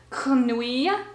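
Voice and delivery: grenouille with the R scraped at the back of the throat, French style. Shown as a demonstration. Vlogger demonstrating a hard French word, throaty French R in grenouille. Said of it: "throat sounding R".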